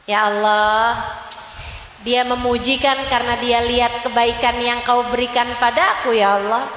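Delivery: quiet humble prayer. Acted. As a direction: murmur it like a humble prayer to God. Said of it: "ingat Allah". (doa lirih penuh rendah hati)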